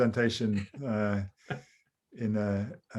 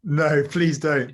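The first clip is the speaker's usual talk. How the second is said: laughing; 4 semitones higher, 5 dB louder, slower than usual. Real, not acted. Begging half-joking, slow laugh.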